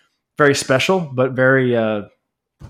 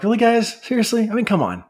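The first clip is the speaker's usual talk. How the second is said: high, fed-up mock exasperation; exasperated Jesus; 8 semitones higher than usual. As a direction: play Jesus rolling his eyes at the disciples. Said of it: "this attitude of, like".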